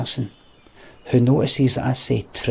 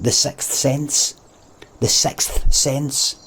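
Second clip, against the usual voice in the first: slow, deliberate; much slower than usual. Real, not acted. Likens it to film's twist reveal.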